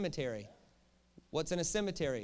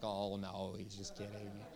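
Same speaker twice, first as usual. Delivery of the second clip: mock brush-off; 9 semitones lower, 8 dB quieter, slower than usual. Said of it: "Then they're like".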